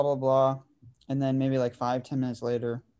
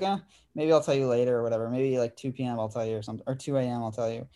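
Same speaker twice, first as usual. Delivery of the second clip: mock cryptic; faster than usual. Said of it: "super cryptic".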